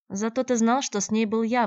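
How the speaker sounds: bristling with offence; indignant. A narrator's reading. Shevelyov snaps at Andrey, indignant. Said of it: "возмутился Шевелёв".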